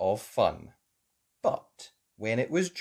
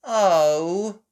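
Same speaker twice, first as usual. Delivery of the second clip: sighing; 7 semitones higher, 9 dB louder than usual. A narrator's reading. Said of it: "sighed Peppa".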